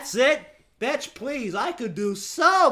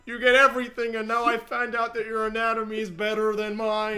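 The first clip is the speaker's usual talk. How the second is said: John's voice; 3 dB louder than usual. Acted. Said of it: "do the voice".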